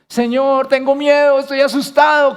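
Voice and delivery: a man confessing his fear to God; scared prayer. Retold or imitated. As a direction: cry out to God afraid, voice lifted. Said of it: "ora como un hombre asustado".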